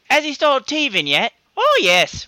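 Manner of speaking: bad English accent. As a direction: coo it in a fake English accent. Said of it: "Dick Van Dyke my accent".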